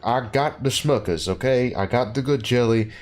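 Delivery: hammed-up Kentucky accent; Benoit Blanc's fake Kentucky accent. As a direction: do a bossy parody Kentucky gentleman. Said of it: "obvious fake Kentucky accent".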